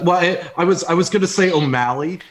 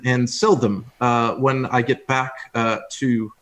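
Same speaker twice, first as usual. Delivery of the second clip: fake British accent. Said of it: "he's trying a British accent".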